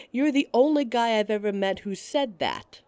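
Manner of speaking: laughing through the line; amused, laughing as you speak. Acted. Laughing at his opinion.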